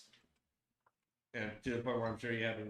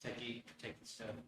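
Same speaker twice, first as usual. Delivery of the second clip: whispering; 9 dB quieter than usual. Real, not acted. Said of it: "Why are you whispering?".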